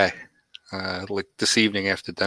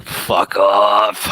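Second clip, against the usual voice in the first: retold shout; 5 dB louder than usual. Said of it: "I'm like".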